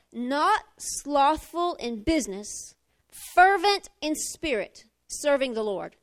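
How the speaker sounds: scripture reading. Acted. Reads scripture aloud.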